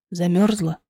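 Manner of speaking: low, soft male voice; quiet husband voice. Acted. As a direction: ask gently, low and hushed. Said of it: "Тихий голос мужа". (тихий мужской голос)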